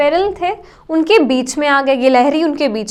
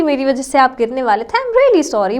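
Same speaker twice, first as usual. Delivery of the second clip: softly sorry; 3 semitones lower than usual. Retold or imitated. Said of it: "बहुत softly, बहुत प्यार से बोला".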